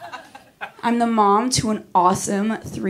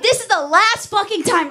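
mock boyfriend; 12 semitones higher than usual. Boyfriend ultimatum in retold fight.

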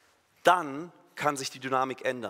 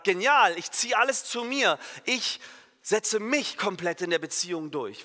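high, loud mock triumph; gleeful partner; 4 semitones higher, 3 dB louder than usual. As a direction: play the partner grabbing it all, pitched up high. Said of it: "wenn der andere dann sagt". (gespielt triumphierend, hoch und laut)

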